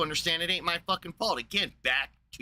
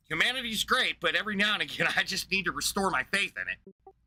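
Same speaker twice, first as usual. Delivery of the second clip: mocking, higher sing-song of naive optimism; mocking naive people; 5 semitones higher than usual. Streamer mocks people who restore their faith, sing-song. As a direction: parody the feel-good crowd with a laugh. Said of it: "walking around saying".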